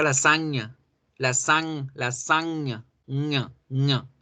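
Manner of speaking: "lasaña" with ñ softened toward English ng; sound demonstration. Shown as a demonstration. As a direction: break "lasaña" down to isolate "ña". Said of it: "Ese es el sonido".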